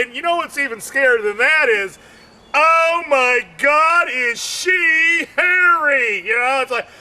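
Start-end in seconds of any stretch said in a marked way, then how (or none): 2.5-6.2 mock shock. Comic acting out shocked onlooker.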